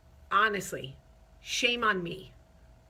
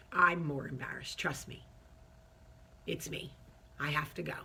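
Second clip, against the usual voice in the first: mortified mumble; 5 semitones lower, 6 dB quieter than usual. Retold or imitated. Mortified retreat.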